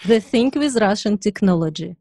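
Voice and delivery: put-on Russian-accented take on the customer's line. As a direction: play the Russian car buyer, deadpan. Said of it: "I can help you".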